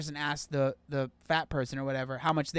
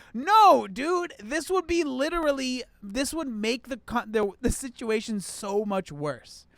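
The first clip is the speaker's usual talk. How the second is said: much higher, loud protest that slowly settles; exasperated; 7 semitones higher, 5 dB louder, slower than usual. Real, not acted. Creator dismissing the book's advice, exasperated high protest. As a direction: shoot the idea down in disbelief.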